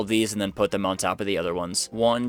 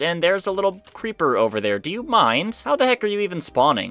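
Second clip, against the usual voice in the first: much higher, annoyed surprise at a creeper; higher-pitched indignant disbelief; startled, exasperated; 5 semitones higher than usual. Real, not acted. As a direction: react like a pest just crashed your build. Creeper appears in his build.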